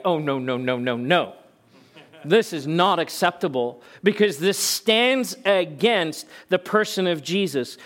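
firm, emphatic objection; fired-up Paul. Retold or imitated. Preacher voicing Paul objecting to false teaching, fired up. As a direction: run the no's together, then declare it forcefully. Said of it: "Paul gets fired up".

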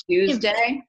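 "Tuesday" begun with a CH sound; mother's Tuesday. Retold or imitated. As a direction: say "Tuesday" as "chooz-day". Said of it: "speech impediment because she says".

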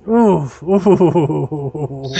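wavering drawn-out oohs; flashback ooh. Pretend. Storyteller sliding back to the old fair, flashback oohs.

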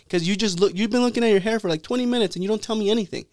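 high, exasperated mock rant; fed up. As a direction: act out a barber scolding his silent customer. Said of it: "fool got fed up with him".

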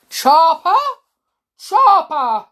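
loud hunting call; shouting. Acted. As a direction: shout after him. Pursuers calling the boy.

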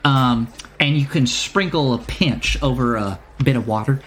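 know-it-all proprietor bluffing, with drawn-out pauses; halting, puffed-up merchant patter; stalling shopkeeper. Acted. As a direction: stall for answers in a wandering accent. Shopkeeper bluffs through explanation.

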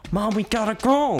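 high-pitched mock child's whine-yell; imitated yelling kid. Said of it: "her kids in the background yelling".

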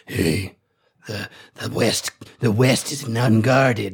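whisper-like menace from a fiend in their heads; the Barghest luring the party, low and slow; fiendish telepathic voice. Retold or imitated. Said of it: "his telepathic voice is gonna be like".

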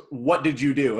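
suspicious, accusatory question; blunt, accusing demand. Retold or imitated. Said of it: "I totally looked at it just".

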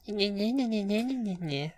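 high, nasal taunting sing-song; mocking nyeh nyeh. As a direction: tease like a bratty kid. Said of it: "mock my friends by going".

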